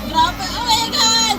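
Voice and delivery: drawn-out thrilled exclamation; excited. Real, not acted. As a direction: marvel at the dancing. Reacting to synchronization.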